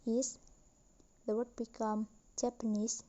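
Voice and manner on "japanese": Japanese with main stress on nese, lighter stress on Jap; stress on knees. Shown as a demonstration. Teacher showing a stressed suffix, Japanese stressed on nese. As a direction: say Japanese, putting most weight on the last syllable. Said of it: "The primary stress is on".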